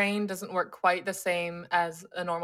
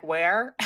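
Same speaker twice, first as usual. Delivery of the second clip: "Where" with a rising question tune; imitating a puzzled "Where" asked across a language barrier; 2 semitones lower than usual. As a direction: lift the end of "Where" into a question. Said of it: "Like a question".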